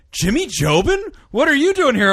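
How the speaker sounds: high, loud, thrilled recognition; delighted high squeal. Retold or imitated. Old school friend spotting him, thrilled high squeal. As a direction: squeal his childhood name in surprise. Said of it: "And she goes".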